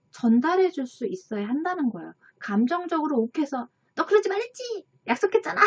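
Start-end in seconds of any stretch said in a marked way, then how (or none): 3.9-5.6 put-on much higher, yelling at a child; angry mom scolding her child in public, shouting; loud scolding. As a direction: impersonate a mom snapping in anger. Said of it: "큰 소리로 꾸짖으면서".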